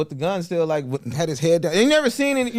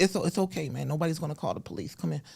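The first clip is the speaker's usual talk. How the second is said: Mike Tyson; 7 dB quieter than usual. Retold or imitated. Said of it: "one of my favorite ones doing".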